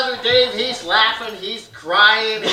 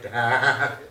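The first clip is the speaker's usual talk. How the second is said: put-on lower, slow pleading kid; lightly voiced scared kid brother; whiny kid brother; 4 semitones lower, 5 dB quieter, much slower than usual. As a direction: beg dad not to be mad. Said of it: "My brother Dave's like".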